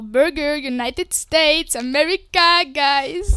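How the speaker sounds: hammed-up American English, slowly stretched on United States; a clumsy parody of an American accent; mock American accent. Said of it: "ça, c'était vraiment pas ouf". (imitation d'accent américain exagérée et ratée)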